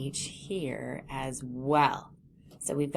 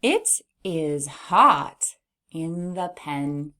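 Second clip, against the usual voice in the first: slow reading; 4 dB louder, much slower than usual. Shown as a demonstration. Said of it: "pretend this one's a pig".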